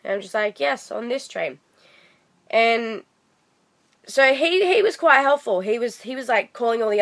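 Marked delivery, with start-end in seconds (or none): 0.6-1.6 softer, flat, fed-up answer; exasperated reply. Retold or imitated. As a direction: say it like it's obvious.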